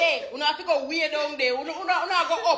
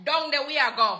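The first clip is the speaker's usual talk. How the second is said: rural Jamaican patois demo; Jamaican country accent. Shown as a demonstration. Hairstylist demonstrates for viewers, Jamaican country patois. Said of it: "make them get the accent".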